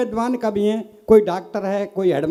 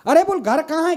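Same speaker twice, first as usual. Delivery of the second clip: exasperated call; 6 semitones higher than usual. Retold or imitated. Husband calls wife in quarrel.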